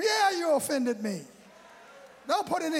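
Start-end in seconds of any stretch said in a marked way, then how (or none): 0.0-1.3 mock offended retort, punched out; indignant retort. Preacher voicing the wronged person who refuses a weak apology, indignant. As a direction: shoot back that you really were offended.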